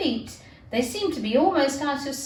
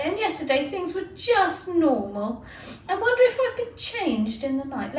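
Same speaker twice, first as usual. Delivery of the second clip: put-on a touch higher, wondering girl's voice; puzzled Alice; 4 semitones higher than usual. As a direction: muse aloud, lightly bewildered.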